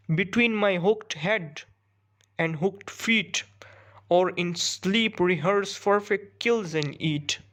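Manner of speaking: slow, measured poetry reading; poem recitation. Acted. Teacher reading a hawk's monologue to students, measured recitation. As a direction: read the verse out slowly, phrase by phrase.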